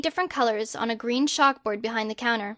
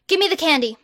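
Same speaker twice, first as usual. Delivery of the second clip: higher and louder demand; demanding robber; 5 semitones higher, 4 dB louder, faster than usual. Acted. Masked robber demanding candy from the clerk, loud. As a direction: bark the order at the clerk.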